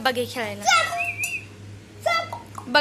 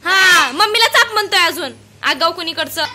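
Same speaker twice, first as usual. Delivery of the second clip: mock scolding; 5 dB louder than usual. Real, not acted. Scolding child for insolence.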